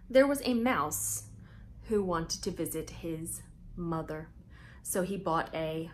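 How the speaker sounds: lively storybook read-aloud with big pauses; reading to children. A narrator's reading. Host reading Mouse Tales to young viewers, bright storytelling voice. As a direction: read it out like story time for little kids.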